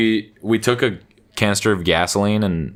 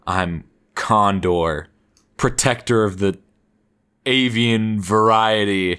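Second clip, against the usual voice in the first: slow, solemn hero introduction, lightly acted; mock superhero announcement; slower than usual. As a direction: announce a hero title with drawn-out pauses. Friend grandly hands out hero names.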